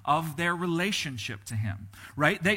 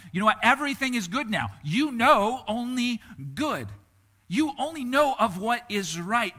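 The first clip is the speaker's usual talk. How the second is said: emphatic voice of God; 7 semitones higher, 5 dB louder than usual. Acted. Preacher voicing God reassuring Adam and Eve, loud and high. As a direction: declare it with big assurance.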